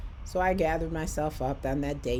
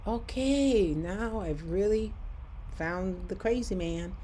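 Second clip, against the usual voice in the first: mock disbelief; 4 semitones higher than usual. Her reaction to a stranger offering a wheelchair, mock disbelief.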